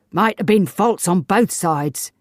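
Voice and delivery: gruff. A narrator's reading. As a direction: Davis grumbles back at his wife, gruffly. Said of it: "said Mister Davis gruffly".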